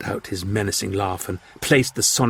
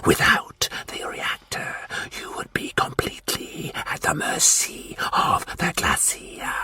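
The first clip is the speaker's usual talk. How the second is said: whispering Martian warlord; 5 semitones lower, 6 dB quieter than usual. Acted. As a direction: breathe the demand like a cold threat.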